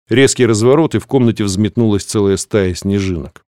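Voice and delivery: ordinary talk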